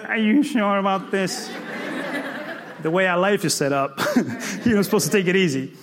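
hesitant, doubting friend; voice of Fear. Acted. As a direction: cautiously talk them out of it. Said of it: "Fear is like".

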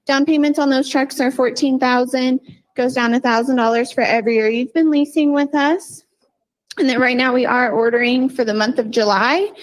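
breathless, rushing through the numbers; talking while short of breath. Real, not acted. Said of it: "I'm out of breath".

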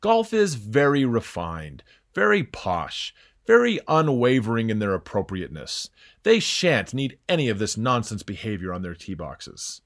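put-on a light, slowed English Hugh Grant accent; lightly voiced posh English accent, unhurried. Host mocking golf's manners in an English accent. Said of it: "in a Hugh Grant accent".

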